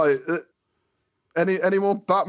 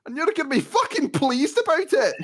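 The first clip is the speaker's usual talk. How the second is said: exasperated Hagrid; 6 semitones higher than usual. Retold or imitated. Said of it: "that is how".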